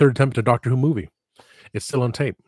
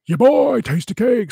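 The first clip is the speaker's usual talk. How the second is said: much higher and louder, a lewd showman announcing himself; Tasty Cake persona; 13 semitones higher, 6 dB louder, slower than usual. Acted. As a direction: burst in as your cheeky night-time alter ego. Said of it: "at nighttime he becomes".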